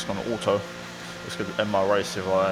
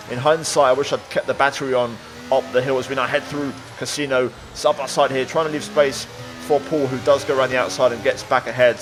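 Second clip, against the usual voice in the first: motorsport commentator; 3 semitones higher than usual. A narrator's reading. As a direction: lively race commentary voiceover. Race narration over gameplay.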